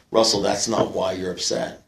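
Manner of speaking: low, quiet acted correction; understated and low-pitched; calm sponsor's verdict. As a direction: deliver it softly, as a knowing sponsor.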